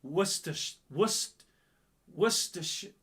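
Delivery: Worcestershire as "wuss-ter-sh", broken off; halting go at Worcestershire as "WUSS-ter-shuh"; correct pronunciation attempt. Shown as a demonstration. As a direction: feel out Worcestershire piece by piece, starting "wuss". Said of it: "It's pronounced Worcester".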